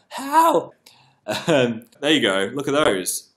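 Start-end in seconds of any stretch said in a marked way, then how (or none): 0.1-0.7 cracks much higher; voice break. Real, not acted. His voice cracking on a word, higher. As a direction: let it crack mid-word. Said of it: "I had a little voice break then".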